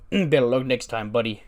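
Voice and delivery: lightly voiced smug pat-on-the-back tone; a hint of mocking sympathy; smug consolation. Otis consoling Brooks outside the door, lightly smug. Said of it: "And it was just like".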